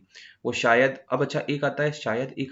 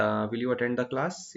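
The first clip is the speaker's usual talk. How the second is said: slow example sentence; much slower than usual. Shown as a demonstration. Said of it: "same यही concept".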